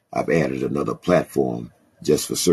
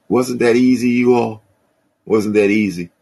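excited; 9 semitones higher, 5 dB louder than usual. Real, not acted. Rhetorical call to congregation.

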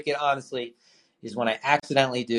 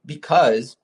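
hiccups; 3 dB louder, slower than usual. Real, not acted. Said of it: "I have, like, the hiccups".

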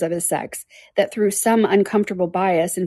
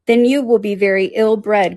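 louder, drawn-out exclamation; crying out; 3 semitones higher, 5 dB louder than usual. A narrator's reading. Mrs Palmer answers her mother, crying out. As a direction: cry it out slowly and emphatically. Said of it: "cried Missus Palmer".

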